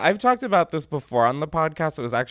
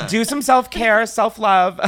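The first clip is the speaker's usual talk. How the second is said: laughing; 9 semitones higher, 6 dB louder, slower than usual. Real, not acted. Laughing joke advice.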